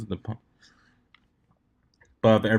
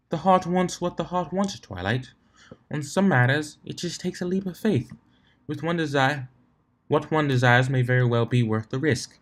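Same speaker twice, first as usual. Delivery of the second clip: lightly voiced refined lady, higher; a hint of a prim unicorn, pitched up; Rarity's voice; 4 semitones higher than usual.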